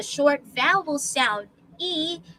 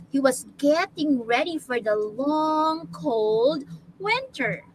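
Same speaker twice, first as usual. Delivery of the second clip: put-on slow storybook narration for children; story reading. Teacher reads bear story to class, measured storytelling. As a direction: read it slowly, drawing out the key words.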